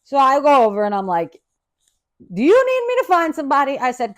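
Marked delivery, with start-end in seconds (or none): 2.3-3.8 sweet helpful offer. Retold or imitated. Offering help to roommate.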